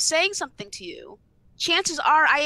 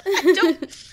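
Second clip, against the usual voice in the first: a high laugh breaking the words; laughing in disbelief; 5 semitones higher, 7 dB louder than usual. Real, not acted. Ranting about harassers, laughing in disbelief. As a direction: laugh it out, can't believe it. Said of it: "laughs at the absurdity".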